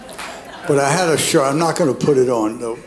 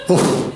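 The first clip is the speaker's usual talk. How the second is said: mock dog bark. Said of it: "My imitation of a Georgia football player".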